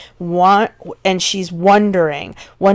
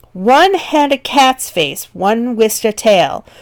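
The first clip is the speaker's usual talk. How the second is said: slow, deliberate verse reading; teacher slowing the lines to show the pace. Shown as a demonstration. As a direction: read the list slowly, savoring each creature. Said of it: "to kind of slow you down".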